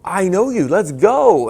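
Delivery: loud, high hype shout; mock race yell; excited yell. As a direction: yell back to pump yourself up. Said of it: "I would yell".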